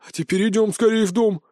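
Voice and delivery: brushing off the loss lovingly; warm old man. Acted. Old man comforting grown boy.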